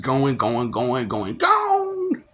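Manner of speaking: mock auctioneer; auction gone. Auctioneer chant of going, gone.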